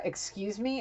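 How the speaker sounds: affronted woman. Retold or imitated. Acting the woman's affronted reaction.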